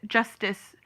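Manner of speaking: "justice" as one word, ending -tis. Retold or imitated. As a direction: say "justice" joined, weak second syllable. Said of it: "They're saying it".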